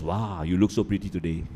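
a plain, sincere "Wow, you look so pretty today"; genuine compliment. Shown as a demonstration. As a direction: say it simply and mean it. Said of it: "Genuine and fake".

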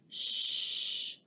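hushed whisper; whispered shh; whisper shush. Acted. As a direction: shush them like a secret surprise. Shushing before a surprise.

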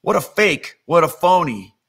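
scornful fake amazement; mock-impressed, then dismissive. Onlookers look at Jesus and scoff, mocking. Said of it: "They mocked him".

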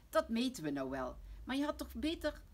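loud, cross father's grumble; grumbling. Acted. Papa grumbles at Lotje on the sofa, cross. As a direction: grumble a reproach that stops unfinished. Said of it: "En papa moppert".

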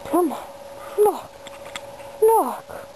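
high, laughing pleading; laughing plea. Real, not acted. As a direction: plead while laughing at the pet.

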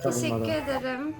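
put-on soft thin anime girl voice; quiet cutesy e-girl voice; man doing a woman's voice. Holds girl voice in game.

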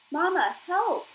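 high, loud panicked scream for mama; terrified cry for help. Acted. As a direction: shriek for help, caught in a fist. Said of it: "cried Brightbill".

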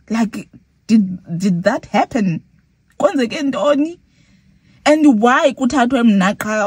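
indignant questioning, not fully shouted; retold annoyed outburst. Robbed passenger confronting the taxi driver, retold annoyed outburst. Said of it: "I was shouting at the driver".

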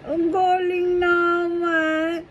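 slow, sing-song praise; drawn-out praise. Real, not acted. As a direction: stretch out the praise. Praising toddler slowly.

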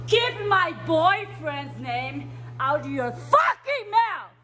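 slow, furious shout; angry yell. Acted. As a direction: spit each word out angrily. Same angry line repeated.

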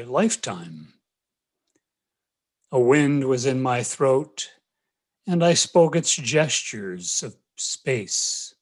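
measured, deliberate poetry recital; poem reading. Acted. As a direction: read it as verse, pausing after each phrase. Reads own poem aloud.

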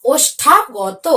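ওষ্ঠাগত stretched out very slowly; slow careful pronunciation. Shown as a demonstration. Teacher slowly models ওষ্ঠাগত for pupils to copy. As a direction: draw out each sound of ওষ্ঠাগত. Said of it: "উচ্চারণটি কি?".

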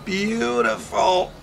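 put-on slow, high French accent. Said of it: "I like your French, um, your French accent".

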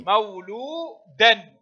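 مولودا drawn out, ending in "-dan"; sounded nunation. Shown as a demonstration. Teacher showing pupils tanween, slow مولودا with a sounded n. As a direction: slowly say مولودا as "mawluudan", final n heard. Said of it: "تنطق ولا تكتب".

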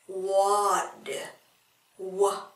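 water whispered, no voice; whispered echo of water; whispered repeat. Shown as a demonstration. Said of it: "ở đây chúng ta đọc là wa".

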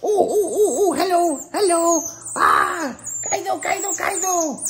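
high, loud giggly hellos; squealing laughing coo. Real, not acted. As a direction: greet the cuddly otter with laughter. Otter greeting, laughing.

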